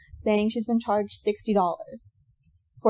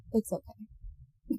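much softer, slow, let-down sigh; disappointed; 10 dB quieter, much slower than usual. Retold or imitated. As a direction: give in, deflated and disappointed. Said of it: "in that disappointed way".

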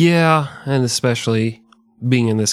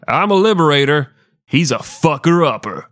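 Jim Jones quote; 4 semitones higher than usual. Retold or imitated. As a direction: declare it like a self-styled savior. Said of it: "he said, quote".

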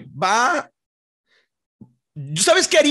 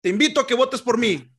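campaign speech voice; 2 semitones higher than usual. Pretend. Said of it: "le dan ese tonito acá".

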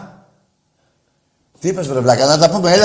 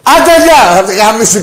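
shouts it much higher and louder; angry brush-off shout; 4 semitones higher, 5 dB louder than usual. Real, not acted. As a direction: slam the door on the caller with your voice. Host hangs up on caller. (φωνάζει θυμωμένα)

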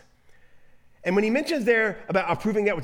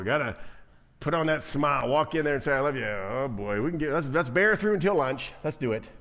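grudging churchgoer; 4 semitones lower than usual. Retold or imitated. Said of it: "that attitude".

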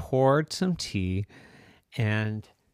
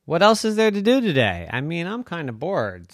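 put-on high, fast, whiny kid dinosaur; bored little stegosaurus; 8 semitones higher, 5 dB louder than usual. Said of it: "said Rascal".

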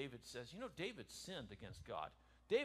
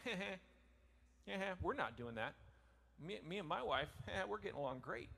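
mock laugh; 4 semitones higher than usual. Mocking fake-happy couple.

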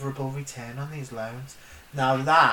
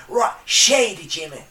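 put-on American accent; 2 semitones higher, 6 dB louder than usual. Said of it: "My American accent, mate".

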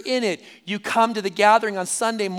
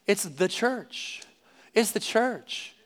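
softer, slow and deliberate; hushed, slow reveal of the answer; hushed emphasis; 6 dB quieter, slower than usual. Real, not acted. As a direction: let it land quietly.

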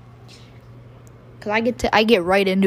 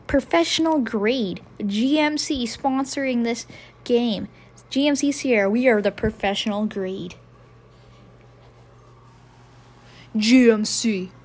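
mock ad read. Fan mimicking the game's sponsor, mock ad read. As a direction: read the GMC slogan like an ad.

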